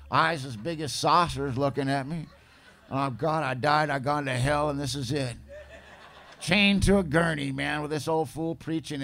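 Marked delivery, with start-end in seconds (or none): 2.9-5.4 laughing through mock panic; half-laughing dread. Waking in hospital, panicking.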